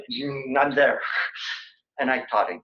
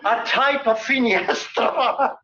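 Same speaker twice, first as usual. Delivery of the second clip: sly cover-up; 9 semitones higher, 3 dB louder, much slower than usual. Real, not acted. Face-saving joke.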